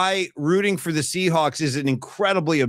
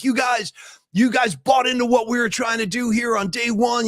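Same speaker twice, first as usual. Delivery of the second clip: lightly acted coach addressing his team, higher; typical coach speech; 5 semitones higher than usual. Coach retold congratulating his players, lightly imitated speech. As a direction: imitate a coach's earnest locker-room speech. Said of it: "you know, the typical coach".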